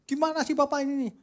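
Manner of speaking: put-on high, fast scolding girl; a young woman's voice, high and quick; indignant young woman. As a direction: fire it back at him, quick and shrill-high. Girl driver scolds pastor after crash.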